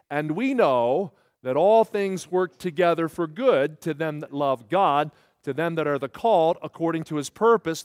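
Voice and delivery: slow, measured verse recitation; leading group recitation. Real, not acted. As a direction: lead the room through the verse, slowly. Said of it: "You all quote it with me".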